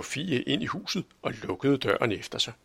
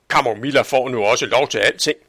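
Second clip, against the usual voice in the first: grumbling; 7 dB louder, faster than usual. Acted. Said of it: "vridsede Sofie".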